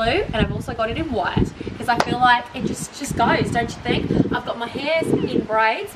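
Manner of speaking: put-on playful Australian accent; light put-on Australian twang. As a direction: chat through it like an Aussie vlogger. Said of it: "with an Australian accent".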